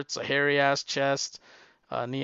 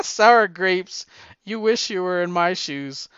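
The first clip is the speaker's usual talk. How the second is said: loud, raised-pitch mock taunt; gloating retort; 4 semitones higher, 6 dB louder than usual. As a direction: crow over your rival, easing off after the first jab. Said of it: "And she goes".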